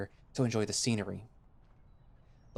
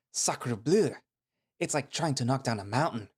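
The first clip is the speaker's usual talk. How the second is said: excited fox voice; 3 semitones higher than usual. Acted. Fox Tobin voiced, French exclamation.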